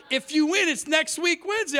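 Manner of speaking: high-pitched imitation of a clerk; store clerk. Clerk telling a customer about lottery winnings, mimicked. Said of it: "you know her, right?".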